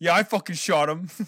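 loud, high Massachusetts accent. Imagining a soldier revoiced by a voice actor from Quincy: Massachusetts accent. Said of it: "revoiced from a voice actor from Quincy, Massachusetts".

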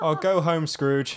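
high, slow, drawn-out calling voice. Playing a character yelling back at a departing car: yelling back. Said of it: "I yell back".

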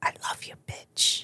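hushed whisper under the breath. Speaking in character in a game, unheard by others: whispering under her breath. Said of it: "Jen whispers under her breath".

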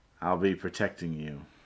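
completely flat, deadpan, expressionless delivery. She looks at the two group leaders and says this, completely deadpan. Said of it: "completely deadpan".

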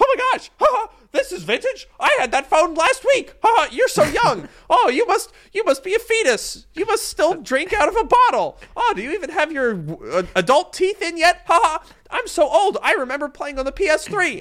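very high, squeaky cartoon voice, swooping. Mocking an older millennial commenter about a vintage iPhone, in a Mickey Mouse voice. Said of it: "Is that Mickey Mouse that comments that".

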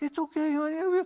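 put-on very high, little baby-talk voice. Explaining how people talk to a baby, using a little voice. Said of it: "you go into this little voice".

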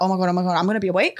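put-on panicked speech. Retelling being awake before surgery anesthesia: imitating own past panic. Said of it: "kind of panicking a little bit".

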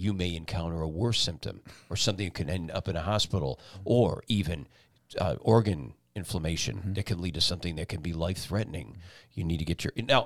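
low, dire, ominous, foreboding voice. Voicing a health warning about worsening symptoms, in a dire voice. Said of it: "You actually got a pretty good dire voice".

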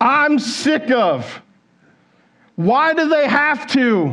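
put-on annoyed, whiny griping voice. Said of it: "I want to give you an idea of what that sounds like".

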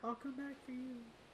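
barely audible, high, hushed half-whisper. Speaking in character to teammates left behind: half-whispering in character. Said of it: "I whisper".

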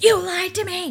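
put-on very loud, shrill, very high, explosive furious yell. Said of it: "they walk in hot".

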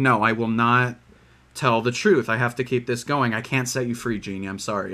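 plain

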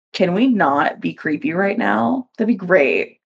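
ordinary talk

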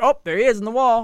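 unexcited, deadpan, flat monotone commentator-style delivery. Mimicking how they describe a crash, imitating flat, unexcited commentary. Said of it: "They're like, ... there's no excitement. And they're so monotone".

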